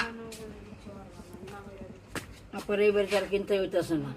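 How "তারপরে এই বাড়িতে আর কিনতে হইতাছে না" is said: talking while chewing paan; words round a mouthful of paan. Real, not acted. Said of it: "মুখে পান দিয়ে নিজে খালি চাবাইতেইছে".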